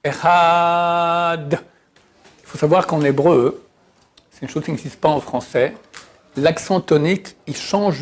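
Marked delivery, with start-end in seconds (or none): 0.0-1.6 Echad, short E, stress at the end; Echad said right. Shown as a demonstration. Teacher showing the correct Echad after the wrong one. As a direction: say Echad without lengthening the E. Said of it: "faut pas dire Echad".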